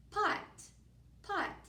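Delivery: pot sung high like a question; high sing-song pot. Shown as a demonstration. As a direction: chant pot up high for the kids. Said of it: "you'll repeat that".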